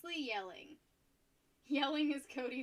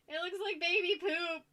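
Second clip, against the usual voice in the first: gross-out exclaim; 7 semitones higher, 7 dB louder than usual. Real, not acted. Grossed out by paint colour.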